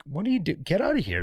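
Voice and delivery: mock yell, pitched high; a hammed-up retelling of shouting her out; retold yell. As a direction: replay the angry yell at her, half-voiced. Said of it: "I yelled and was like".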